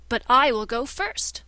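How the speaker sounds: loud, rising taunt; triumphant retort. Acted. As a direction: beat him to it with a sneer. Shadow outmanoeuvres.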